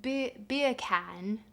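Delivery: slow Jamaican "beer can", "beer" with no r; trying Jamaican beer can. Shown as a demonstration. Streamer tests the joke to chat, slow Jamaican try. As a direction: sound out "beer can" like Jamaican bacon, slowly. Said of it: "British beer can is the same as Jamaican bacon".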